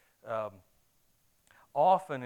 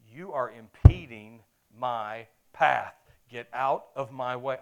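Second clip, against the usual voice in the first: road rage; 11 dB louder, slower than usual. Retold or imitated. Stuck behind slow driver.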